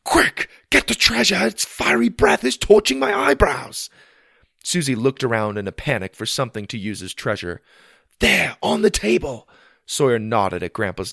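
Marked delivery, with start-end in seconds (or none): 0.0-3.9 put-on high, loud urgent boy's shouts; excited shouting. Boy fights invisible dragon. 8.2-9.5 high loud urgent call; excited shout. Acted. Boy shouts in pretend fight.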